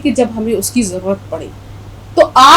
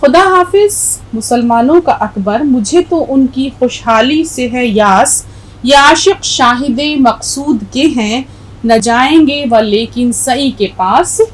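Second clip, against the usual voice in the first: slow, measured recitation of the verse; poem recitation. Shown as a demonstration. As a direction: read the poem aloud slowly, line by line. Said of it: "پھر سے پڑھ دیتی ہوں". (نظم کی ٹھہر ٹھہر کر قرات)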